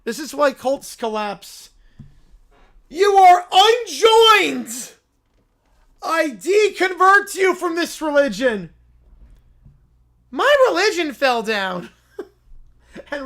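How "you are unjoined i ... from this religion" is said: slow, loud decree; a self-made prophet proclaiming; mock excommunication. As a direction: cast him out like a pompous prophet. Character decree.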